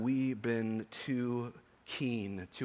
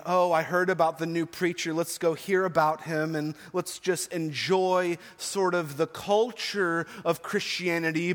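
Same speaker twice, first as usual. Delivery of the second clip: higher, louder mock voice of a casual churchgoer; shallow churchgoer; 5 semitones higher, 5 dB louder than usual. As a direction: play a self-satisfied spectator of the faith, half mocking.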